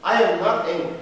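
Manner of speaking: low, tight, holding back anger; sulky denial. Acted. Actor insists to his partner, low and sulky. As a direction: deny it through clenched restraint. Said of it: "What do you mean you are not angry".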